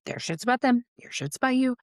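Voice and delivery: high, sing-song mantra; self-taught mantra. Retold or imitated. Reminding herself not to take silence personally, high sing-song mantra. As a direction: chant it high like a lesson learned. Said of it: "a thing I had to teach myself".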